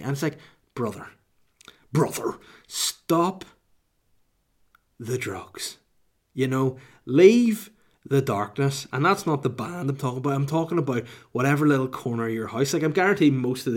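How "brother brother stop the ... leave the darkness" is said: drawn-out, pleading guru voice; slow preachy plea. Retold or imitated. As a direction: beg them dramatically, very slowly. Mock plea to conspiracy believers.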